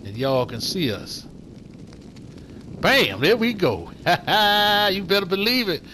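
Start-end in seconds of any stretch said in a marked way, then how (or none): 2.8-5.8 excited. Real, not acted. Triumphant reveal with torch.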